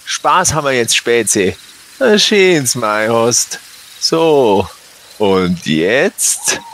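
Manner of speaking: a hint of a gruff Bavarian robber; Bavarian thug. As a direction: taunt him in thick dialect. Robber threatens victim in dialect.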